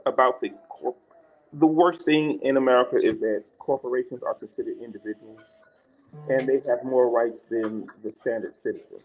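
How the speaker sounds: muffled mic sound; finger over the mic. Real, not acted. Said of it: "you're covering your mic".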